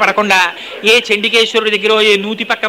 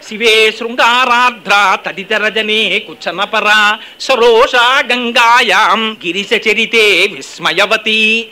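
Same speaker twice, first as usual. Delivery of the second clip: slow chant slowing further at the end; sloka recitation; much slower than usual. Acted. Preacher quoting the verse, slow chant. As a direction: draw the final words out.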